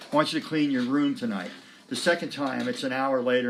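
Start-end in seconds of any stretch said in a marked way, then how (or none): 0.1-1.5 calm mom. Retold or imitated. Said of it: "your mom at after dinner saying".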